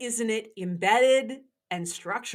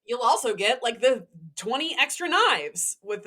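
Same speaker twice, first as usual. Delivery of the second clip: infomercial voice; 5 dB louder than usual. Shown as a demonstration. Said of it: "that's my, um, infomercial voice".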